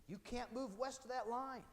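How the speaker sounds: high-pitched mock royal decree; playful teacher voicing a stern order; stern British order. British forbid colonists moving west.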